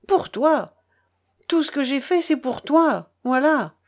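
a hint of an old man's bitter lament; old grandfather lamenting to the boy; lightly voiced grieving grandfather. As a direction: plead and reproach with hurt pride.

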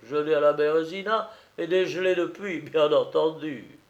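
put-on jovial old soldier making introductions; drum major. Major presenting his old comrade-in-arms to the family, hearty.

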